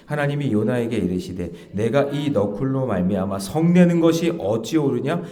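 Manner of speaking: loud, measured congregational reading; scripture read-aloud. Real, not acted. Preacher leading worshippers in reading Jonah, loud recitation. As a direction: lead the congregation through the verse.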